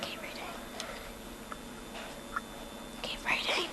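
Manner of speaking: unvoiced prompting whisper. Real, not acted. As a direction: whisper it off-mic. Prompting a reader off-mic.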